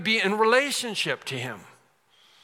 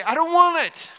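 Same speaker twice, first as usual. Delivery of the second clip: scornful refusal; 10 semitones higher, 7 dB louder than usual. Retold or imitated. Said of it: "that you say".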